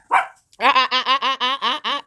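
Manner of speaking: laughing warning. Real, not acted.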